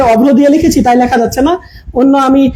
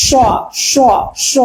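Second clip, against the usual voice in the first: hissing s demo; 4 dB quieter, slower than usual. Shown as a demonstration. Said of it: "একটু শীষের মতো হয়".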